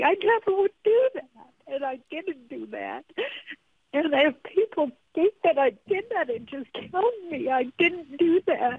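holding back tears while denying; tearful shame. Real, not acted. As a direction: voice cracking with tears, pleading. Roseanne denies racism, voice breaking.

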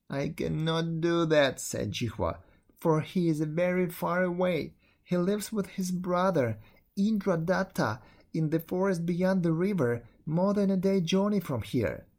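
a hint of a worried servant girl. Servant girl's voice.

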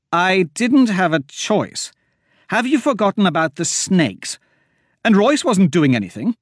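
high, heated comeback; defensive retort. Acted. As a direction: push the blame back hard. Myra defends herself heatedly.

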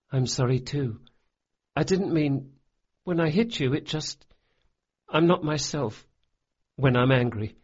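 a lightly voiced boy, contrite; boy's voice. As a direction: voice the big boy, earnest and apologetic. The speaker talks in a boy character voice.

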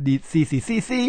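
"ซี" repeated as a tone exercise; syllable tone drill. Shown as a demonstration. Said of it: "จะเป็นเสียงโทและเสียงตรีเป็นหลัก". (ไล่เสียง "ซี" ทีละพยางค์)

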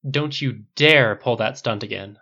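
loud, slow, firm boss order; commanding CEO voice. Acted. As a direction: lay down the law like a CEO. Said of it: "using her best commanding C E O voice".

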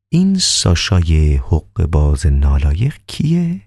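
calm doctor. Acted.

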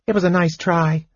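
a touch of resigned regret; rueful. A narrator's reading. Kender consoling old mage, mildly rueful. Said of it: "Tas said ruefully".

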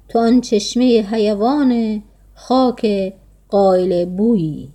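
slow, measured verse reading; poem recitation. A narrator's reading. Old woman admiring a young man's beauty, slow poem recitation. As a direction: recite the lines slowly, with even pauses.

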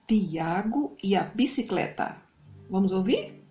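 put-on bright, friendly host voice for children; kids show host. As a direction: greet the little ones like a TV host. Host greets children before story.

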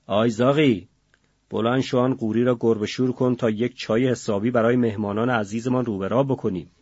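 mild loud call, fading by the end; shouting. Acted. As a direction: call the boy over, bossily. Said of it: "داد زد".

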